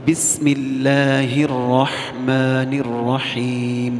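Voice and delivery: chanted slowly, every letter full; slow careful recitation. Shown as a demonstration. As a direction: sing each letter out fully. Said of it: "پورا پورا حرف ادا کرنا ہے". (آہستہ ترتیل سے، ہر حرف پورا)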